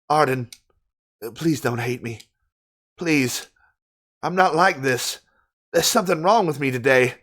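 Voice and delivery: lightly acted Southern lady; Southern lady accent. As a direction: plead with a touch of Southern accent. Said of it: "I sound like a Southern lady now".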